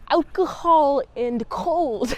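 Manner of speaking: laughing through a clumsy mock Russian accent; a goofy half-hearted Russian accent, giggling; bad Russian accent. Vlogger mimics Chekhov's accent for viewers, a bad mock Russian accent. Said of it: "Is that a good Russian accent?".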